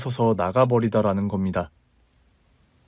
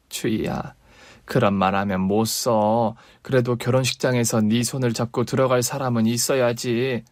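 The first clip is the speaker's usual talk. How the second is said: gentle mother. Acted.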